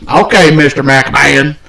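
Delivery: slow, mock-deferential compliance; obedient employee. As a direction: give in meekly to the boss, playfully. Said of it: "then here comes Vince. He goes".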